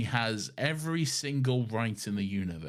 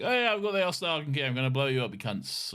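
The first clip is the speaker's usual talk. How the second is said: mock Martha threat; 4 semitones higher, faster than usual. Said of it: "Martha ... being like".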